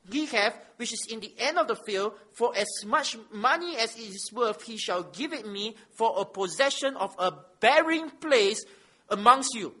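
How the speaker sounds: measured public reading of holy text; scripture reading. Acted. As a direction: read it out firmly to the congregation, weighting key words. Reads scripture aloud.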